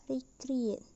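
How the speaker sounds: recreate with the stress kept on its final syllable, ate. Shown as a demonstration. Teacher demonstrating stem stress to learners, recreate stressed on ate. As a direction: say recreate, leaning on the ending ate. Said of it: "The stress remains on ate".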